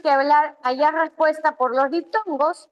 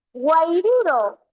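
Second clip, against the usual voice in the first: "guairuro" said slowly, stretched out; drawn-out example word; 2 semitones higher, slower than usual. Shown as a demonstration. Teacher sounding out a triptongo for students, drawn out.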